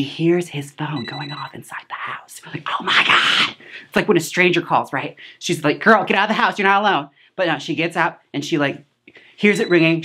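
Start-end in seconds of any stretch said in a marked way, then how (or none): 2.8-3.6 hushed, voiceless mock gasp; retold horrified reaction; shocked gasp. Viewers' gasped shock, retold. 5.8-7.1 higher-pitched plea to a film heroine; playful alarmed heckle, pitched up; urgent mock warning.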